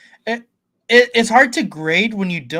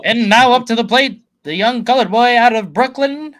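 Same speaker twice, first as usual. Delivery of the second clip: put-on old-time baseball announcer; 5 semitones higher, 3 dB louder than usual. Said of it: "nineteen forties baseball announcer".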